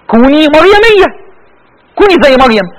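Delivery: high, loud, ringing call; emphatic exhortation. Real, not acted. (نداء حماسي بصوت عالٍ)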